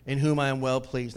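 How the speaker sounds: slow, emphatic voice from the cloud; voice of God. Acted. God declaring his beloved Son from the cloud, proclaiming voice. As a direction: proclaim it loud and slow, then settle. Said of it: "here's what it says".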